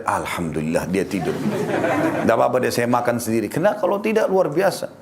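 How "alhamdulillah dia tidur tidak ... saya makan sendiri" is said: lower, chuckling mock relief; a husband sighing with glad relief, half laughing; relieved husband. Suami lega istrinya sudah tidur. (suami lega sambil tertawa kecil, suara lebih rendah)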